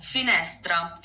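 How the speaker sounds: Italian "Finestra", open middle e; correct Italian pronunciation. Shown as a demonstration. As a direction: demonstrate "Finestra" with stress on NES. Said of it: "It's like that".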